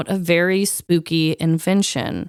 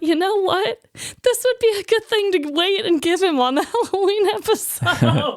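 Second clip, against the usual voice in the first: bright inner voice; 9 semitones higher than usual. Retold or imitated. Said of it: "and then I thought".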